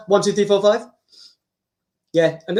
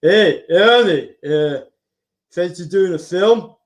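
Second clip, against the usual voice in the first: Stallone impression; 4 semitones lower, slower than usual. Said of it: "Sly Stallone having a conversation".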